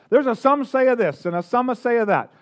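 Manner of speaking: lightly put-on Italian accent. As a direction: play it with a touch of mock Italian. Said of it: "I don't know why they all sound Italian".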